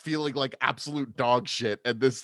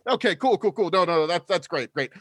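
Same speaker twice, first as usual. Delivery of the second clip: Minotaur bro voice. Acted. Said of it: "I try to sound like a Minotaur".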